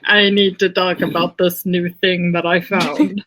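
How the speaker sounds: put-on valley girl accent; lightly mocking valley girl; valley girl act, vowels stretched. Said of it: "talking about the Valley Girl accent".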